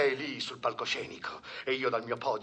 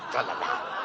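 whisper. Acted. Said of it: "E che vuol dire tralala?".

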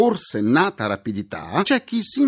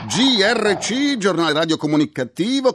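showy game show host; 3 semitones higher than usual. Acted. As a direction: sell the segment name like a quiz host. Announces the show's news segment.

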